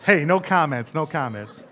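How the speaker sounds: laughing. Real, not acted. Pastor laughing at the congregation's reaction to his boasting, laughing.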